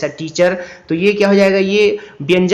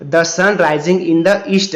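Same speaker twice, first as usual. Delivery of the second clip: slow read-aloud; much slower than usual. Shown as a demonstration. Reads answer sentence.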